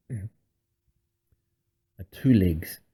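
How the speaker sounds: slow, drawn-out creature voice; lightly voiced swarm monster, slow; high, slightly hoarse monster voice. A narrator's reading. Yugramol noticing a two legs, slightly hoarse creature voice. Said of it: "very high and slightly hoarse".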